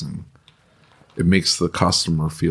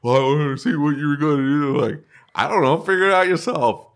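mock exasperated boss; 8 semitones higher than usual. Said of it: "That's literally what I tell my people".

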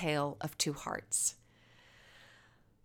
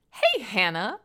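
mild call; 3 semitones higher than usual. Acted. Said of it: "shouted Penny".

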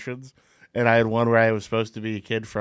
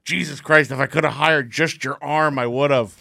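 Clint Eastwood; 4 semitones higher, 3 dB louder than usual. Retold or imitated. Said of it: "Clint Eastwood goes".

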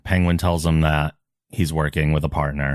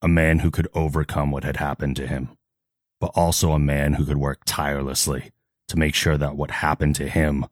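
lightly voiced solemn hero; measured, earnest confession in dramatic pauses; Batman. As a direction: play the grave vigilante with restraint. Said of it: "I don't get to voice act Batman".

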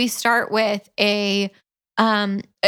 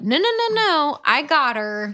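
hammed-up dash to stop him; urgent protest; 5 semitones higher than usual. Jared blocking Evan at the burning house, mock urgent.

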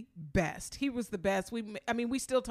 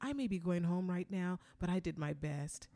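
soothing; 4 dB quieter than usual. Retold or imitated. Soothing fellow contestants ready to leave.

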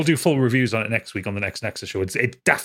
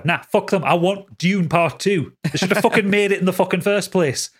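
heated rant, pitched up; 7 semitones higher than usual. Real, not acted. Ranting about delayed sequel.

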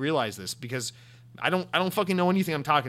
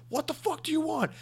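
annoyed reply; 14 semitones higher, 3 dB quieter than usual. Acted. Sony answers the yelling from Japan, high annoyed reply. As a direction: answer a distant caller in a high mock-irritated voice. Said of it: "They're like".

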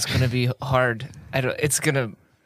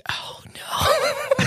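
laughing. Real, not acted. Recap collapses into laughter.

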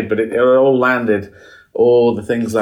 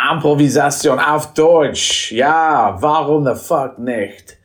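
hammed-up German host, slowed right down; milk each word like a German emcee; mock German compère; 3 semitones higher, much slower than usual. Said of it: "said the same".

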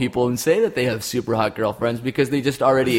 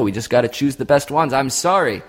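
normal talking voice

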